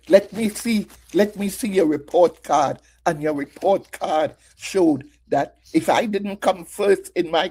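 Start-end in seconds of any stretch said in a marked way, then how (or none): 0.1-2.8 a hint of a stern mother checking grades; mother's demand. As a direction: lightly voice the strict mother asking for the card. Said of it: "What I received was".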